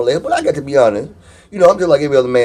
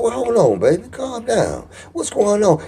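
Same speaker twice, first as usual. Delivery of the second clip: higher, softer, soothing phone voice; high concerned voice; 3 semitones higher, 5 dB quieter than usual. Retold or imitated. Man calming his upset girlfriend, high soft voice. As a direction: raise the pitch and slow down to soothe. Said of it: "I take my voice up eighteen octaves".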